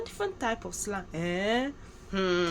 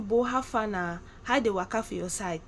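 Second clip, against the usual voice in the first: Nigerian Pidgin. Retold or imitated. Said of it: "They'll ask you".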